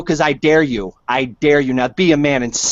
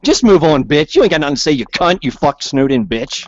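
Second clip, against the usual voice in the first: louder, angry cursing; loud angry insults; 3 dB louder than usual. Real, not acted. Telling the caller to move on, angry and loud.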